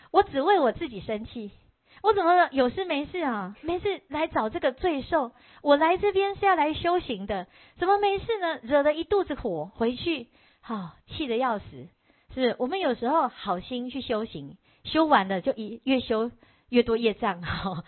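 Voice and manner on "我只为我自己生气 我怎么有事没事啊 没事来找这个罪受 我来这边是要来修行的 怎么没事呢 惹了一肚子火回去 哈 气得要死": self-directed anger. Retold or imitated. Rich man fumes at himself for coming to the temple, mock rant. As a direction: fume at your own foolishness, half-playful.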